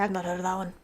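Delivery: softly said, almost to herself; low, dropped-away apology; quiet mumble. Real, not acted. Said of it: "I'm sorry".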